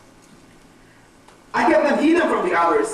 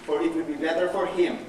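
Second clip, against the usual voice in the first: low, softer woeful warning; solemn quoted Master; 6 semitones lower, 10 dB quieter than usual. Acted. The Lord warns the man who betrays him, solemn and low. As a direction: quote the Lord gravely and quietly. Judas quoting his Lord's warning.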